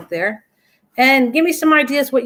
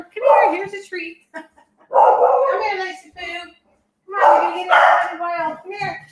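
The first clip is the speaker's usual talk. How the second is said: pet talk; 7 semitones higher than usual. Real, not acted. Coaxing her puppy over with a treat, much higher.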